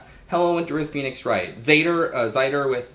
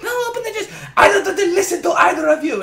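very high, loud laughing squeal; squeaky puppet voice; 7 dB louder than usual. Retold or imitated. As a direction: shriek it like a manic puppet, laughing.

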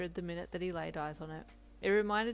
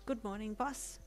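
cheery; 4 semitones higher than usual. Acted. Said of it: "you said with a cheery smile".

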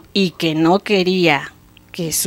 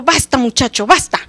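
loud, exasperated surrender; raised voice, fed up and giving in; angry king; 3 semitones higher, 6 dB louder than usual. Acted. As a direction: cut the boy off in royal anger. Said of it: "el rey se enojó tanto".

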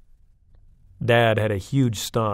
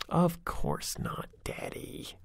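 put-on slow, high, knowing little girl voice; drawn out like a prim little lady; sophisticated little girl; 6 semitones higher, 4 dB quieter, much slower than usual. A narrator's reading. Chastity answers her dad, prim and sophisticated. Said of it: "said a very sophisticated Chastity".

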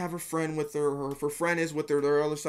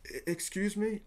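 hesitant, soft acted stammer; nervous approach; 4 semitones higher, 4 dB quieter than usual. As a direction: play a timid, halting opener. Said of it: "you're gonna be nervous".

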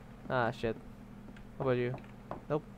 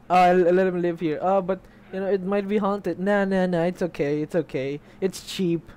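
lively, slightly louder mock conversation; acted friend chatter; 3 semitones higher, 5 dB louder than usual. Player mimicking friends letting him rent, breezy mock dialogue. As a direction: brush it off as the imagined friends. Acts out friends dismissing the haunting.

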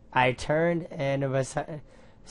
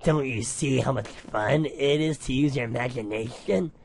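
grinding bone voice. Acted. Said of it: "a grinding of bone".

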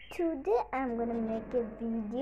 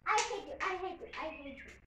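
fading mock anger; 3 semitones higher, 3 dB quieter, much faster than usual. Fake anger fading away.

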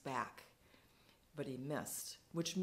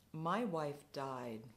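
slow, subdued admission; mildly voiced grieving drunk; quiet despair; 2 semitones lower, slower than usual. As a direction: let it fall out slowly, quietly. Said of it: "a spasm of despair".

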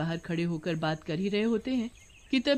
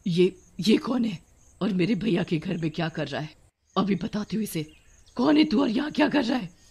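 furious; 2 semitones higher, 4 dB louder than usual. Acted. Witch finds a stranger in her brother's house, furious. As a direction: demand answers angrily from an intruder. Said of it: "बहुत आग बबूला होती है".

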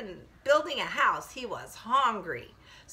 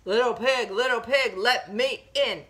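loud, measured chanted demand; a hint of wolf, punching each beat; lightly voiced big bad wolf; 4 dB louder than usual. Wolf knocks on piggy's door, loud chanted demand. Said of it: "And the wolf says".

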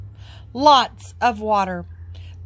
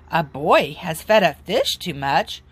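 put-on "A boy has fed a fish too much?" lower, rising on "fed" in disbelief; disbelieving question; 4 semitones lower than usual. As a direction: echo it back, puzzled. Firemen repeat in disbelief.

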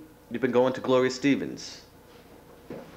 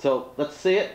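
lightly voiced game show announcer; TV host; 3 semitones higher than usual. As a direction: introduce her like a TV presenter. Hosts a mock TV show.

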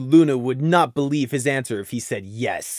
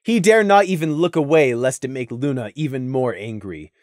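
ordinary delivery

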